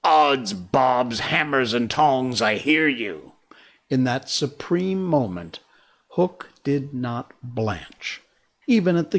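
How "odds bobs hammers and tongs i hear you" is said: Hook's voice. Acted. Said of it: "answered in Hook's voice".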